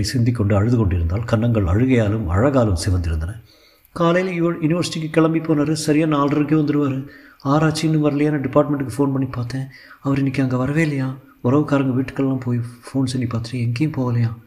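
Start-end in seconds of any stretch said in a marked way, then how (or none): 3.9-14.3 put-on higher, anxious girl's voice; lightly voiced tearful girl; worried young woman. Iniya tells Vasanth her father is missing, worried higher voice.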